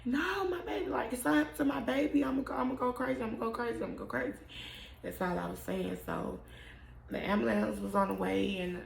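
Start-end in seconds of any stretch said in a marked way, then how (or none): 0.0-4.4 a mother's retold frantic plea, starting very high and trailing off; frantic retold scream. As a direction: relive the panic, voice jumping high then sinking. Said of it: "screaming, like".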